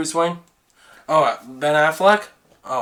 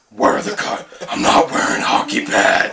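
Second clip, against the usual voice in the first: whispered Batman; 4 semitones higher than usual. Retold or imitated. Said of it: "Batman impression".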